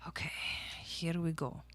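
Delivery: soft unvoiced whisper. Real, not acted. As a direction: whisper it to yourself. Starting again, hushed.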